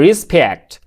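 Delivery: respect said slowly with a clear r and a crisp final kt; teacher modelling respect; careful pronunciation. Shown as a demonstration. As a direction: spell out respect sound by sound. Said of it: "উচ্চারণ খেয়াল করুন".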